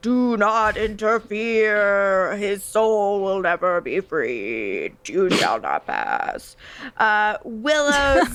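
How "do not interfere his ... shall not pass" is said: eerie, spooky, very slow, drawn-out, swooping, sing-song voice. Retelling a scene where Cordy magically attacks Willow: Cordy's spooky voice. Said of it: "Cordy's spooky voice".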